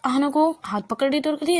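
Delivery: usual speaking voice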